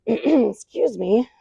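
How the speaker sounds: husky after clearing throat. Real, not acted. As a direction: clear the throat, then speak. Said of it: "I'm not losing my voice".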